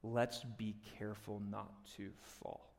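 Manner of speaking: hushed urgent plea; soft urgent wake-up. Retold or imitated. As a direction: nudge them awake quietly. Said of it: "Paul goes".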